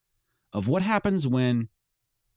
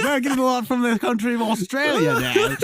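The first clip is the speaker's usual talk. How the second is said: much higher, laughing through the words; laughing mock announcement; 14 semitones higher, 5 dB louder than usual. Host laughing while imitating a boast about Australian listens. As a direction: giggle out a fake proud boast. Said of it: "We're like".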